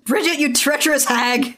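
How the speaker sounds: high, mock-indignant cry; hammed-up scolding; mock outrage.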